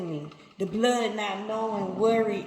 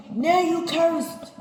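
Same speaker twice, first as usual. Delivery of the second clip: "Now you cursed" repeated higher, louder and slower, heavy stress on "Now"; louder, slower pronouncement; 8 semitones higher, 6 dB louder, slower than usual. Acted. God repeating Cain's sentence, louder and slower. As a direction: drive "Now you cursed" home louder the second time.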